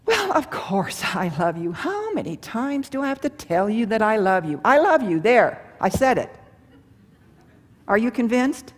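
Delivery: impatient, grudging I love you; exasperated, half-hearted declaration; grudging mixed message. Shown as a demonstration. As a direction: say love with a reluctant edge. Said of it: "example of a mixed message".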